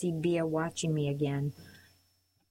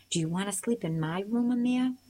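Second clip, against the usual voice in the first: calling out; 3 semitones higher than usual. Acted. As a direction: raise the voice on Amir to reach him. Girl calls into the truck.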